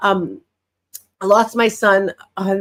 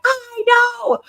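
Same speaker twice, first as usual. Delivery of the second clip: high, exasperated daughter voice; daughter brushing off; 14 semitones higher than usual. Retold or imitated. Daughter answering grandma, high and exasperated. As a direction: toss it off way up high. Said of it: "She's like".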